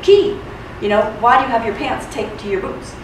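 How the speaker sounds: playing the naive tourist; tourist impression. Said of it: "I did my best tourist impression".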